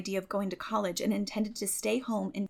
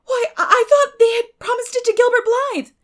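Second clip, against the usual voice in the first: much higher, loud stammering surprise; astonished; 14 dB louder than usual. A narrator's reading. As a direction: blurt it out astonished. Anne astonished.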